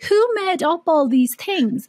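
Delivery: put-on drawn-out questioning kid; lightly voiced bewildered child; a hint of a defiant kid. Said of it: "I'm like".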